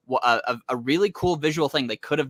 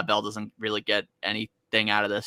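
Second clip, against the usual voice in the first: normal talking voice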